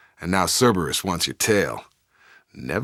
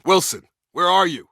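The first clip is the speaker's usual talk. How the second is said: high, raised call across a distance; 12 semitones higher, 3 dB louder than usual. Acted. Searching the station, calling for Wilson, raised call. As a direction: shout for Wilson to answer.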